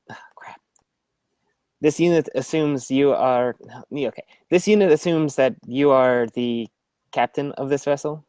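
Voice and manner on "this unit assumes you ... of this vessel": flat third-person robot voice; measured robot address. Acted. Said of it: "stealthy robotic voice".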